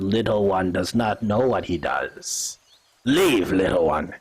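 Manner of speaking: low, grave elder voice; calm low warning from the elder; Kerber speaking. Acted.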